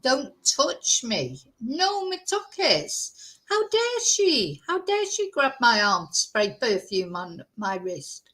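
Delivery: slow, indignant recoil from a stranger's touch; mock horror at being grabbed; outraged refusal. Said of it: "I, like, turned into a monk".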